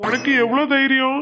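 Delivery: furious shout at the cheeky customer; angry shout. Acted. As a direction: roar at her for her nerve. Shopkeeper catches her, shouting. (கடைக்காரர் கோபமாக கத்துதல்)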